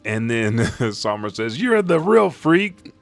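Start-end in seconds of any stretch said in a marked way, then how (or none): 1.6-2.9 high, loud, drawn-out retort; acted strained, slow squawk; squished yell. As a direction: yell back while being squashed. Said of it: "as he yells and his head's being squished".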